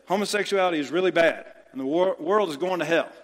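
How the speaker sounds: lightly voiced pastor repeating himself; mock preachy scold. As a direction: rattle it off like a tired sermon line. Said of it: "And they say".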